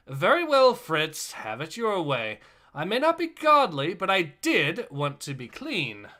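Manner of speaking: mildly indignant, punched openings that fall away; indignant retort. Acted. Gunner addressing Fritz after losing his bath, mild indignation.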